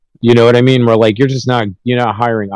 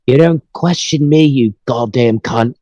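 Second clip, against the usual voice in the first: mock a famous singer; 3 semitones higher, slower than usual. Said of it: "And he's like".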